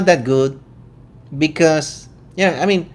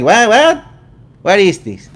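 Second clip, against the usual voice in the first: high, a bit louder mock confusion; baffled what; 4 semitones higher, 4 dB louder than usual. Venezuelan vlogger acting baffled by British and Australian accents. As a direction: throw up your hands at the accents. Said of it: "I'm like".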